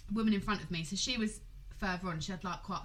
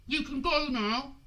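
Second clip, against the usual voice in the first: haughty woman; 5 semitones higher, 5 dB louder, slower than usual. Retold or imitated. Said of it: "she went to me".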